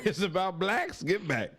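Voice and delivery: laughing repeat of a friend's line; excited repeat. Real, not acted. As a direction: throw the rhyme back, delighted.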